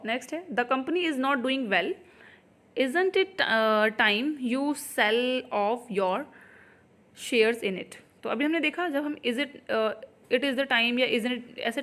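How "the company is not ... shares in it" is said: slow, word by word sentence reading; slow dictation read. Shown as a demonstration. Teacher reading the exam question to students, slowly. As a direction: spell the sentence out for the class.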